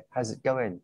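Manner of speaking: "how's it going" linked and reduced; reduced sounds. Shown as a demonstration. Teacher modelling reduced phrase for student, linked demo. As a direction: run "how's it going" together with weakened sounds. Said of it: "nếu mà nó giảm âm nữa".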